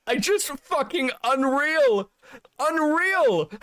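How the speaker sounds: high, slow, laughing disbelief; can't believe it, cracking up; real giggling incredulity; disbelieving laugh. Real, not acted.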